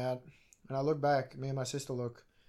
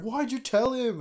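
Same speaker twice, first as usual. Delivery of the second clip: higher-pitched mock complaint; indignant protest; 8 semitones higher, 3 dB louder than usual. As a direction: protest like you've been betrayed. Acted quarrel between friends.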